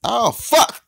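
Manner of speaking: high, loud curse; frustrated yell. Real, not acted. Player losing ground, loud high frustrated curse. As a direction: blurt it out as things go wrong.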